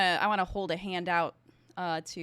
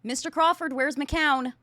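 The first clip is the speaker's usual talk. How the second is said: raised, louder call to a teammate; urgent demand; 6 semitones higher, 5 dB louder than usual. Acted. Agent demands a missing teammate's whereabouts, urgent call. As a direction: call out sharply for an answer.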